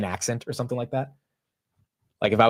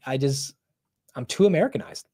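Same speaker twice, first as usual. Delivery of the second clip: ordinary delivery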